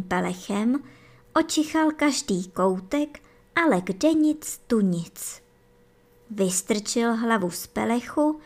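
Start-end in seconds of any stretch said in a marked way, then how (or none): 4.7-5.4 whispered. A narrator's reading. Hare finds empty nest.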